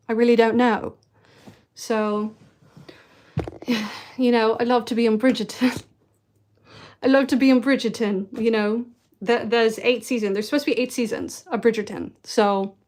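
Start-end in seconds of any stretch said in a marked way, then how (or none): 4.2-12.1 put-on British accent. Would-be Bridgerton actor, in a pretend British accent. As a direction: try to be believably British. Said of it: "do you think people would believe me".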